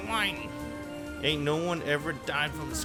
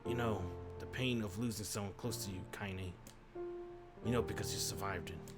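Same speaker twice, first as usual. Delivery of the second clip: trembling tenderness; 2 semitones lower, 5 dB quieter than usual. Acted. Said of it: "tried to still the tremor".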